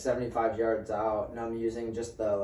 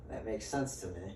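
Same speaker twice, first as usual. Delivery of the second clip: softer, laughter running through it; laughing; 3 semitones lower, 11 dB quieter than usual. Retold or imitated. Agreeing with the deer-cleaning advice, quiet laugh. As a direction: say it half laughing, half deadpan.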